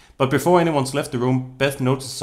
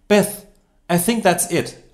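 urging to stop; 7 semitones higher, 4 dB louder, slower than usual. Acted. Friend urging her to give up.

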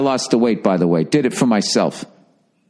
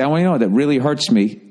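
calm, even, lower-pitched delivery; matter-of-fact; 5 semitones lower than usual. Acted. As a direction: state the hurt plainly, without drama. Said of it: "matter of factly, just say".

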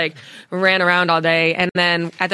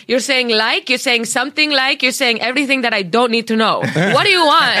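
exasperated budtender; 5 semitones higher than usual. Retold or imitated. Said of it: "he's like".

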